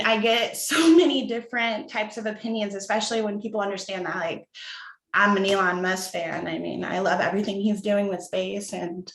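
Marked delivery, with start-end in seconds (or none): 5.1-9.1 nervous, trembling voice; shaky voice. Real, not acted. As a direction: voice shaking with nerves. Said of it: "Sorry, my voice is shaking".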